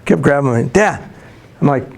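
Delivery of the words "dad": put-on higher, short toddler call for dad; imitated pestering toddler. Toddler son tugging at busy dad, pestering. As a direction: lightly mimic a little boy wanting attention. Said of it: "He couldn't hardly talk".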